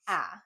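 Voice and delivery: "ah" said as open short ah; short vowel sound. Shown as a demonstration. Teacher showing the wrong vowel for A. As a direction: contrast with a short "ah".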